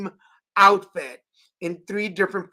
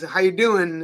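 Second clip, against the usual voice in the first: relaxed Texan. Retold or imitated. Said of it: "dropping all the G's".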